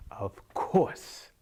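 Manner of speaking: drawn-out, knowing "of course"; stretched old-woman voice; old wise woman. Acted. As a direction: say it as a mysterious old seer. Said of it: "and she said".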